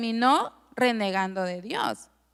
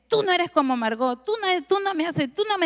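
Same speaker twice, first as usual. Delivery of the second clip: much higher whiny complaint; a customer scolding the sister, much higher; complaining client; 6 semitones higher, faster than usual. Retold or imitated. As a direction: pitch it high like a grumbling customer. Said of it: "las clientas dicen".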